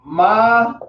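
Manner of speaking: Mazaham broken into long, separate syllables; sounded out. Shown as a demonstration. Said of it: "This is how they sounded out".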